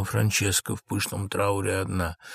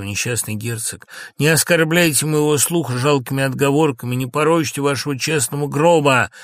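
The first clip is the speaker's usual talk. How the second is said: scornful reproach, growing louder; contemptuous; 4 semitones higher, 5 dB louder than usual. Acted. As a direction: heap scorn on a disgraced lord. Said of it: "к лежащему с презрением".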